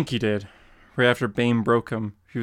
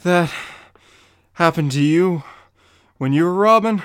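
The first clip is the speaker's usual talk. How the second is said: breathless amazement; 6 semitones higher, 7 dB louder than usual. Acted. Robin gasps after being caught.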